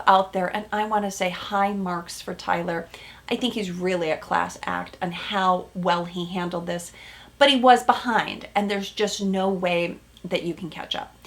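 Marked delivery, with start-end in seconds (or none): 3.3-11.1 whispered confidential commentary. Real, not acted.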